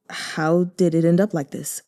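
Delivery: sighing. Acted. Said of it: "Jiang Yexue sighed".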